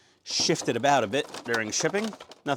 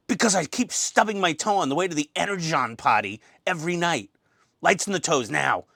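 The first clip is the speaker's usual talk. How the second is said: lightly voiced exasperated boss; insist, a touch higher than usual; Optimus Prime; 4 semitones higher than usual. Optimus explaining his stubbed toe, lightly played irritated commander. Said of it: "that's my best impersonation".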